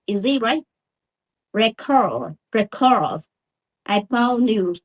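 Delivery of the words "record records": Record stressed on REC as a noun. Shown as a demonstration. Teacher showing noun stress. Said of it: "if it a noun, the first syllable is stress".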